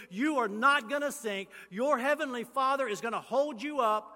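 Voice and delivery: loud, rising, insistent preaching; full-force preaching. Acted. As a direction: drive the promise home to the church.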